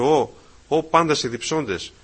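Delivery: slow call with a long, held Ω; παρατεταμένο Ω. Shown as a demonstration. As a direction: draw out the Ω at the start of «Ω πάντες οι διψώντες». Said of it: "να βάζει αυτό το ωμέγα". (μακρόσυρτο «Ω», σαν αργό κάλεσμα)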